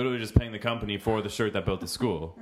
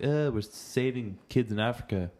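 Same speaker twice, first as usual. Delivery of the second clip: mock pride; 5 semitones higher than usual. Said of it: "We're like".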